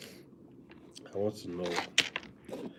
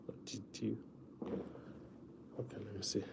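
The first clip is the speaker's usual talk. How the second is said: whisper; 9 dB quieter, faster than usual. Acted. Teasing viewers about missing him.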